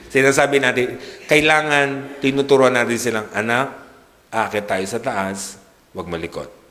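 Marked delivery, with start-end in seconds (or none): 3.3-6.6 put-on much softer, low warning to a child in church; mother quietly warning her child in church not to fidget; stern hushed mother. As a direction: hush the kid firmly so nobody else hears.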